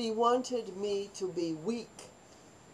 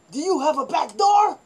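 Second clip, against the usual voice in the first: louder, higher, urgent asking; urgent question; 7 semitones higher, 9 dB louder than usual. Retold or imitated. Girls asking the cook for an escape, urgent and loud. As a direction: blurt it out in a hurry. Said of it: "and we said to the cook".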